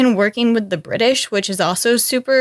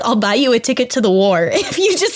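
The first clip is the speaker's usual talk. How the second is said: higher, mock-placating promise; coaxing Steve; 8 semitones higher than usual. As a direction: humour her into coming along. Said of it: "He's like".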